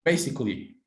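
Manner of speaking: "Basically" said as three syllables, BAY-sik-lee; teacher's dictation: "Basically" with three beats; slow model word. Shown as a demonstration. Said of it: "how many syllables can you hear?".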